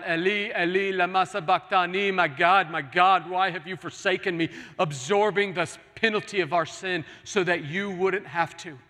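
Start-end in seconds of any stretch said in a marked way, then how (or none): 0.0-4.5 louder anguished cry of the psalm. Retold or imitated. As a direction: call it out loud like a cry from the cross. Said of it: "He cried out".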